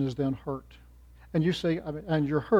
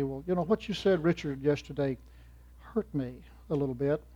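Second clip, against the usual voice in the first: soft, gentle complaint in a lowered voice; quietly; 6 dB quieter than usual. Retold or imitated. Hurt friend gently telling Richard, quietly. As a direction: say it softly, a little hurt. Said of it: "says to me quietly".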